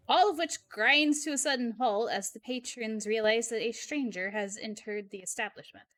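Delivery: measured scene-setting narration; story narration. A narrator's reading. Narrator sets the diner scene, measured story narration. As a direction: read it as atmospheric game narration.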